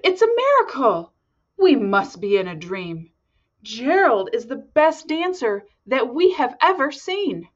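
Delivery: high astonished cheer; amazed shouting. Acted. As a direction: gasp it out in wonder. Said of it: "They shouted".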